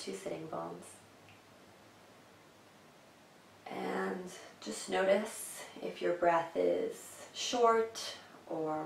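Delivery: calm instructions with room to breathe; guided meditation. Acted. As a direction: gently lead them into settling, unhurried. Leads a seated meditation.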